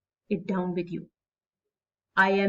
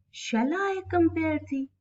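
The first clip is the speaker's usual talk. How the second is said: "I" stressed over "Shall", raised pitch; 5 semitones higher, 4 dB quieter than usual. Shown as a demonstration. Teacher shows students how to read the line, stress on "I". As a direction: read "Shall I compare thee" higher, leaning on "I". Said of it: "this is how you will read".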